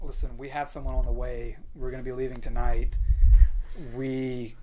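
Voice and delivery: soft, low-key delivery; hushed, restrained retelling of bad news; retold careful announcement. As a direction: break the news quietly. Retelling breaking the news to him.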